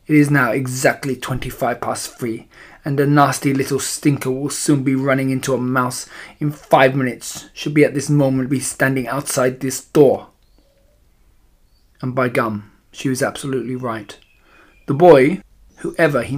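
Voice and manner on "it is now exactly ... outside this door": lightly voiced witch with a foreign accent; a hint of an accented villainess. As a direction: count down to the victim's arrival, mildly menacing and accented.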